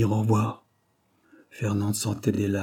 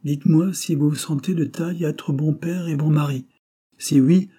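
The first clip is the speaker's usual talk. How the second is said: higher-pitched, pressing question; brusque doctor; 6 semitones higher, 4 dB louder than usual. A narrator's reading. Doctor testing a would-be husband, pressing. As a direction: press for an answer, pitch raised.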